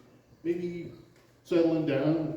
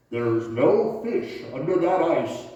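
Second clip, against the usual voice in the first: booming voice; 6 dB louder, slower than usual. Retold or imitated. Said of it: "this voice booms out".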